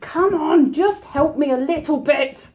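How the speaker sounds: reaching and begging, tense; straining. Real, not acted.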